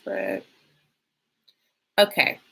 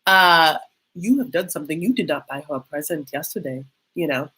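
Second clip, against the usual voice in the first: put-on Kenyan accent. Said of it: "I'm just trying to do an accent for you".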